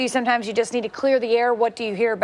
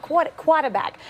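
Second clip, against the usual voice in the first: mock Boston, higher, r's dropped; Boston accent imitation; 5 semitones higher, slower than usual. Host teasing before the break, mock Boston accent. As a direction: try out his Boston "quarterback". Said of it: "because of the way he says it".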